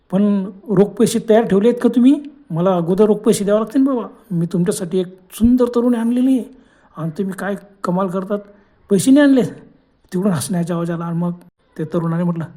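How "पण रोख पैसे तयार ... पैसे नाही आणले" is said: angry demand. Acted. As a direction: scold the boss over missing cash. Young man demands cash on phone. (पैशासाठी चिडून मोठ्याने बोलणे)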